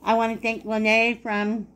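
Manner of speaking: "I wanna thank Lene" said through a mouthful of food; mouth full. Real, not acted. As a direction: chew while saying "thank Lene". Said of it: "sorry, talking with my mouth full".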